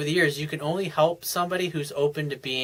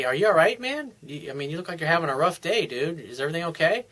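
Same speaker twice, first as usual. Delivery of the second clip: nonchalant. Acted. Coach voicing a casual check-in with a beat-down coworker, nonchalant. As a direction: ask it offhand, rising on the questions. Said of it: "so in a nonchalantly way".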